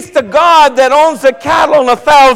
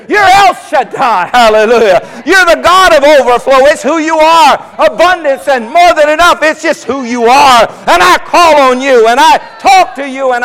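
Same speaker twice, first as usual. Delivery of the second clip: shouting praise to God; preaching prayer. Acted. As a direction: proclaim God's names with full force. Preacher praying at full force.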